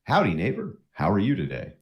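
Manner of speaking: lightly voiced folksy greeting, pitch swooping down; friendly neighbor. First guy on the street greets a newcomer, friendly. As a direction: play a welcoming small-town neighbor. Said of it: "the first guy says".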